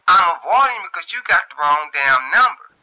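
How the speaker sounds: high, loud irritated voice; Shantae snapping. A narrator's reading. Shantae telling the caller he has the wrong number, loud and high. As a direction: snap it back, up high. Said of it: "Shantae say".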